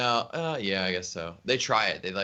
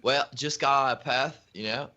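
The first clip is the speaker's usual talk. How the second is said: mock Australian accent; 4 semitones higher than usual. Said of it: "How's Benny's accent".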